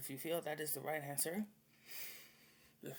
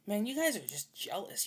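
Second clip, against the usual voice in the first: loud, higher taunt; retold outburst; 7 semitones higher, 8 dB louder than usual. Telling off the hospital staff, loud taunt. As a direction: call them jealous, loud.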